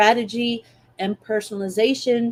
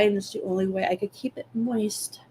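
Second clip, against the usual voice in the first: whispering while chewing gum; 7 dB quieter than usual. Real, not acted. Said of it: "I'm sorry about the gum chewing".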